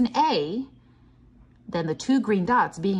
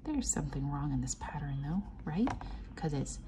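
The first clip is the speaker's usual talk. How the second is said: secretive whisper; 3 semitones lower, 8 dB quieter than usual. Real, not acted. Teacher hinting at the mistake, conspiratorial whisper. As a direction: share it like a secret. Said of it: "whispered to children".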